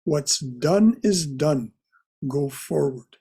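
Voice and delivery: firm, slow emphasis on DONE; measured, insistent retelling; emphatic. Retold or imitated. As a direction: quote it slowly and emphatically, like a teacher's maxim. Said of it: "he would say quite emphatically".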